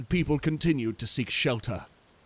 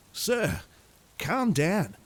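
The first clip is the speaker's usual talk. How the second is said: tourist reply; 6 semitones higher, much slower than usual. A narrator's reading. Tourist answers the frantic man.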